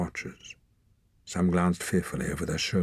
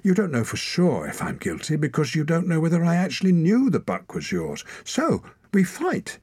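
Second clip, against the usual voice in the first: high, loud, driven; fierce challenge; 10 semitones higher, 3 dB louder than usual. A narrator's reading. Torak challenging the leader to combat, high and loud. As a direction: stare him down.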